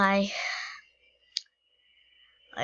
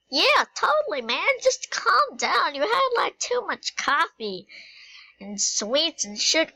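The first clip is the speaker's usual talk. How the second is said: lightly voiced apple lady; 5 semitones higher than usual. Apple lady answers in character.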